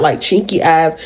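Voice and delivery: ordinary talk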